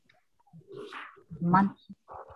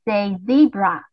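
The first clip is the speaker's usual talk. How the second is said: leader call; 4 dB louder than usual. Shown as a demonstration. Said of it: "everyone repeat after me".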